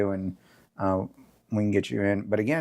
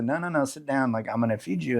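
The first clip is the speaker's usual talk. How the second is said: guilt tripping grandma; 4 semitones higher than usual. Retold or imitated. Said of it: "and you're like".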